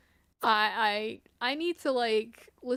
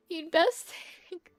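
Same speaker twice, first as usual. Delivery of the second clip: higher, louder second go at the line; louder retry; 6 semitones higher, 3 dB louder than usual. Acted. Streamer retrying the guild NPC line, higher and louder. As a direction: push the words out higher and louder this time.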